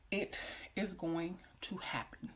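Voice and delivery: slow, deliberate affirmation. Real, not acted. Vlogger assuring herself her prayers will be answered, slow and deliberate. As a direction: spell it out slowly and quietly.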